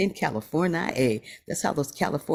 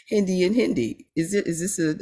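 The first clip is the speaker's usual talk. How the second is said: laughing; 7 semitones higher than usual. Real, not acted. Host laughs at two Hindis.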